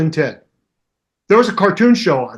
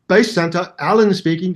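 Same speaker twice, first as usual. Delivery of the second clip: rough attempt at a British accent; bad British impression. Friend imitating Alan answering at Bay Center, bad British accent. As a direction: do a poor British phone greeting. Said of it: "I'd always do a really bad impression".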